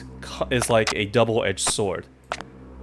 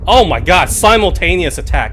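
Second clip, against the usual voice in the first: sudden panic, higher and louder; alarmed outburst; 7 semitones higher, 7 dB louder than usual. Real, not acted. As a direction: caught off guard in the game. Two enemies attack at once.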